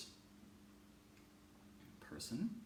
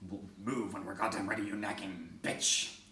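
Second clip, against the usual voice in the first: imagined rude retort; 3 semitones lower, 5 dB louder than usual. Pretend. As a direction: play an irritated shopper snapping back. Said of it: "They'd probably say something like".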